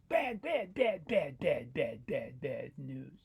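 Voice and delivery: sinking string of dismay; descending mouse lament. Acted. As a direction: repeat it down the scale, slowing at the end. Mouse rattles off bad news.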